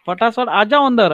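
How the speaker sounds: quick, pressing call to come inside; hurried urging. Acted. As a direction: hurry them in, fast. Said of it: "ऐसा".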